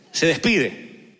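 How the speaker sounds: "Se despide" stretched very slowly, each syllable weighed; slow it right down on "Se despide"; drawn-out emphasis. Acted. Preacher pressing his point to the congregation, very slow and deliberate. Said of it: "repeats the point slowly".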